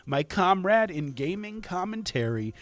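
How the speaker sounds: hyped host introduction; booming kids show opener. Acted. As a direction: announce the co-host like a wrestler.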